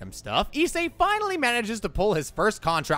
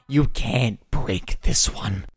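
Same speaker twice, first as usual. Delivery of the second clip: mock-solemn; 6 semitones lower, slower than usual. Mock-solemn repeat of the rule.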